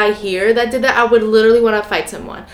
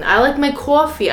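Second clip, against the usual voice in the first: imitated New York coffee vowel, pitched up; mock New York-New Jersey accent, a bit higher; 4 semitones higher than usual. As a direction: put on a light Jersey accent. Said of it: "subtle New Jersey, New York accents".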